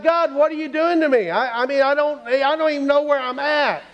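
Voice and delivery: exasperated plea. Acted. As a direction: plead with God, at a loss. Man baffled by God's directions.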